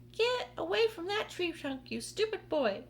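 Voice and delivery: high, sharp scolding yell; yelling at the boy. Acted. Aunt Spiker scolding James near the trunk, high angry yell. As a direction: yell at the boy to get away. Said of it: "Aunt Spiker yelled".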